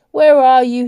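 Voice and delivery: high, loud, coaxing call; falsely friendly calling; trying to sound pleasant. A narrator's reading. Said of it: "He was trying to sound pleasant".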